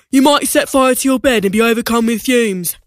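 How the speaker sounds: lightly voiced father; a hint of a fussy dad. Dad joins the argument.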